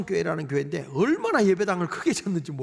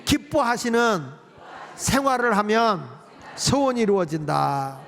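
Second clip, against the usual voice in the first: phrase by phrase with short pauses; measured call for the congregation to echo; lead for repetition. Shown as a demonstration. Preacher feeding lines for repetition, in separated phrases. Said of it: "따라합시다".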